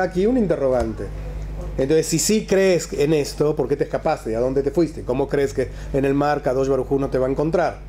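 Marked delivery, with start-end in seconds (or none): none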